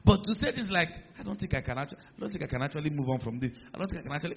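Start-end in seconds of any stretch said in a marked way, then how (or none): 1.2-4.4 softer, faltering mock self-pity; mock defeated talk. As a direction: lightly mimic a believer who gave up. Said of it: "why are you talking like that".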